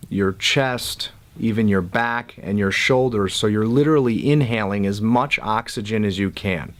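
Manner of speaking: calm meditation guide with long pauses; guided breathing. Real, not acted. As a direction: lead each breath, leaving room to breathe. Leads a breathing exercise.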